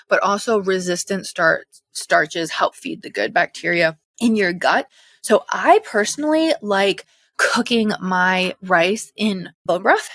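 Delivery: breathless pregnant talk; short of breath while talking. Real, not acted. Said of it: "I'm so out of breath".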